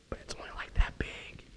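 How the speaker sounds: whispered mock assessment; hushed aside. Preacher voices an onlooker judging a small flower, hushed.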